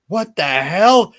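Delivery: high, loud, slow disbelieving cry; shocked outburst. Retold or imitated. Retelling Owen Hart's reaction to his broken slammy, shocked high outcry. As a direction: squeal it out in stunned disbelief. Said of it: "And Owen's just is like".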